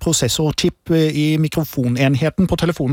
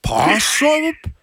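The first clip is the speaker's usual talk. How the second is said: calling to a dog; 8 semitones higher than usual. Shown as a demonstration. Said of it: "Lat som du roper på en hund".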